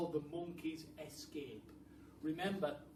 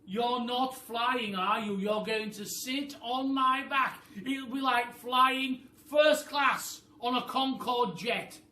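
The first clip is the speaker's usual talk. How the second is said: high, loud bossy bird voice; a high, loud, clever-bird voice; roly-poly bird voice; 9 semitones higher, 16 dB louder, slower than usual. Acted. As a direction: squawk it like a know-it-all bird. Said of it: "said the roly-poly bird".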